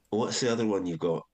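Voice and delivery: lightly imitated Scottish accent. Comedy head asking writers for another idea, imitated Scottish accent. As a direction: ask with a touch of Scots. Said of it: "I was Scottish, by the way".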